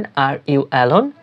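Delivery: "Are you alone?" drawn out slowly; slow first take with a rise on "alone"; teacher saying "Are you alone?" slowly; slow demo. Shown as a demonstration. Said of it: "তাহলে ইংরেজিতে বলবেন".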